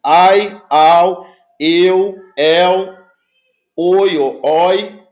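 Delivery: ai, au, eu, el, oi read out loud and clear, one at a time; Greek diphthongs. Shown as a demonstration. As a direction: call out each diphthong sound slowly. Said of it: "em grego você tem esses ditongos".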